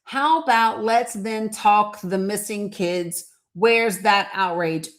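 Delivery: slow, word-by-word reading of a broken sentence; read out verbatim. Shown as a demonstration. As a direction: spell out every clumsy word slowly. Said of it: "I'm reading verbatim at what she said".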